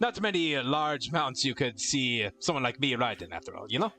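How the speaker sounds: attempted Irish accent. Keeper explaining his smaller hippogriff, attempted Irish accent. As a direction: have a go at an Irish brogue. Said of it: "I'm trying my best to do an Irish accent".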